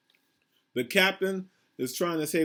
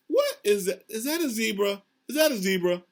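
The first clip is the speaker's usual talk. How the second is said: tell; 5 semitones higher than usual. Acted. Teacher wonders at picture.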